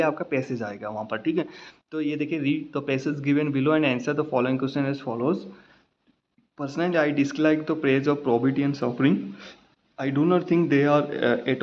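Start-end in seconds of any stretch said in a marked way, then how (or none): 2.4-5.4 slow, careful reading of an exam text; measured exam-paper reading; slow reading aloud. Shown as a demonstration. Teacher reads exam passage aloud. 6.6-9.2 slow word-by-word reading; halting reading of the passage; slow reading aloud. Shown as a demonstration. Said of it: "तो ये ऐसे नहीं पढ़ना है".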